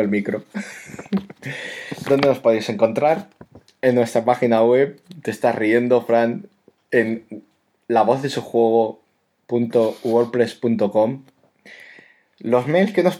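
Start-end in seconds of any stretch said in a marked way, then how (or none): 2.1-5.0 velvety voice. Pretend. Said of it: "despacito y con voz aterciopelada". 6.9-11.2 slow, velvety radio read. Pretend. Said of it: "despacito y con voz aterciopelada".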